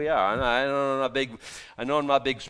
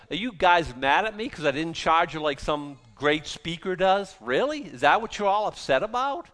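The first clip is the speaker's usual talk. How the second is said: mock indignation; 2 semitones higher than usual. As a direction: challenge the critics, voice rising in disbelief. Paul voiced challenging his critics.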